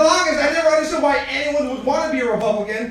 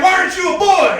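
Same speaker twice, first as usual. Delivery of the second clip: mock disappointed dad; 7 semitones higher, 5 dB louder than usual.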